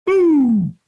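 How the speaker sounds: high, urgent shouted go. Retold or imitated. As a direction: launch him off the start. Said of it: "And he goes".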